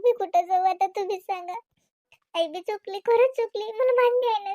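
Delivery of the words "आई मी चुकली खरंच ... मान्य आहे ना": tearful pleading. Acted. Daughter-in-law pleads to stay.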